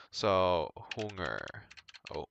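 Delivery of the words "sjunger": "hunger" drawn out slowly, Swedish sj sound; slow Swedish demo. Shown as a demonstration. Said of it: "the reason I'm pronouncing it as hung".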